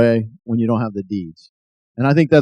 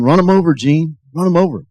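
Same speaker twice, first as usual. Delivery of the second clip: retold scream; 4 semitones higher than usual. Shouting at Gene from the car, a mild retold scream. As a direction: relive the rage without full volume. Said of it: "I was screaming".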